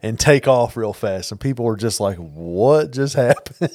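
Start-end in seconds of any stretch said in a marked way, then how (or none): 2.2-3.7 mock bewilderment. Voicing baffled onlookers, laughing.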